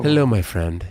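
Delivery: a hint of French accent in a greeting. Shown as a demonstration. Host greets Gilles as a friend, French accent. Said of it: "say it with a French accent".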